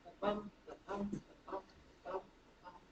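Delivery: soft "ba-bum" pulse, weight on bum; iambic beat. Shown as a demonstration. Teacher echoes the sentence's rhythm, stressing bum in "ba-bum". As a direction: tap out "ba-bum" evenly, light then stressed. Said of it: "Do you hear it?".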